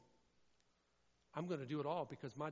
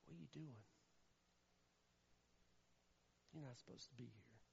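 soft whisper; 3 semitones lower, 17 dB quieter than usual. Pretend. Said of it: "he just whispers".

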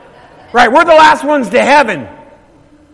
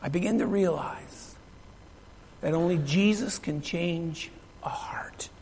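very soft and low, nearly whispered; hushed, solemn; 6 semitones lower, 17 dB quieter, slower than usual. Real, not acted. Preacher closing his testimony of a changed heart, hushed and solemn. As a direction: let it sink to a reverent hush.

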